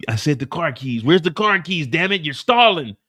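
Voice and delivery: hammed-up angry demand; mock angry demand. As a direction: bark at her to hand over keys. Hitman angry demanding keys.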